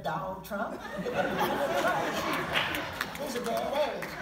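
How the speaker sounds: laughing through the punchline. Real, not acted. Speaker joking about Trump to the audience, laughing. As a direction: let the laugh break into the last words.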